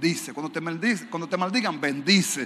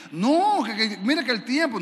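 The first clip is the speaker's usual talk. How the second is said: hermana protestando; 4 semitones higher than usual. Retold or imitated. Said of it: "hermana protesta".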